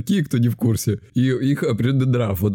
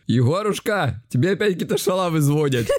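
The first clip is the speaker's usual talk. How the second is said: higher-pitched mock yell, no real shouting; бабушка кричит внуку; 5 semitones higher than usual. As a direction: imitate grandma calling out, pitched up. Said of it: "кричит". (изображая кричащую бабушку)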